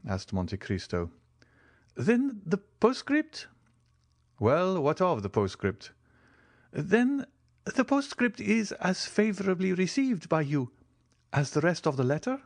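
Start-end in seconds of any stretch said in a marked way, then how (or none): 2.0-12.4 the Italian major. A narrator's reading. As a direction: fret over the postscript.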